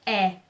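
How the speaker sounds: the wrong, open-E sound. Shown as a demonstration. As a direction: open eh, as in Portuguese é. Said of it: "Ele nunca vai ser".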